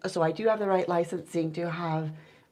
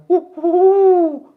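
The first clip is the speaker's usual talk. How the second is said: much higher, loud owl call; other owl's hoot; 11 semitones higher, 13 dB louder, slower than usual. Shown as a demonstration. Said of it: "others have different tones".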